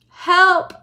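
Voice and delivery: high, loud cry; shouting help. A narrator's reading. Missus TV thrown to the floor, shouting for help. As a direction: cry out in alarm. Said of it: "shouted Missus T V".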